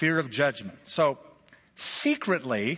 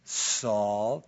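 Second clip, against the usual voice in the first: gently drawn-out name call; mild, kindly address; gracious; 3 semitones lower than usual. Retold or imitated. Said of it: "notice how gracious Jesus is".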